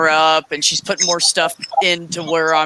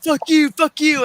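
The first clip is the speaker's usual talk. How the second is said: higher, slow mock yell; imitating a yelling girl; 10 semitones higher than usual. Girl outside the store cursing the clerk, hammed-up. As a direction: fling it back, mocking her. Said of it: "she's like".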